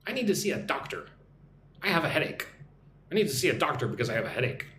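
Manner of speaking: fast model sentence. Shown as a demonstration. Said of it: "try listening and repeating what I say".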